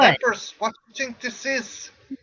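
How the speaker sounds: mock outrage. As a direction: blurt it like it's an insult. Outraged at pepper claim.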